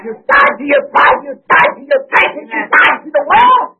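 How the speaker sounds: crying out each line, building; preaching at full force. Real, not acted. Preacher crying out to the congregation, preaching hard. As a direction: hammer every line home. Preacher chanting repeated lines.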